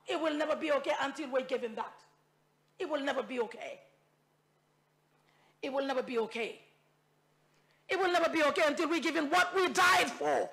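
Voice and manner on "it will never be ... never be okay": quiet repetition. Real, not acted. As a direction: let it sink in, softer. Repeats the line quietly.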